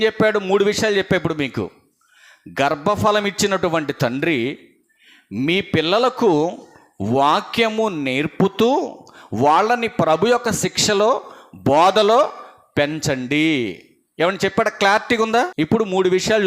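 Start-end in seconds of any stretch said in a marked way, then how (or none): 2.6-13.8 slow, drawn-out preaching delivery. Real, not acted. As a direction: spell out the command phrase by phrase.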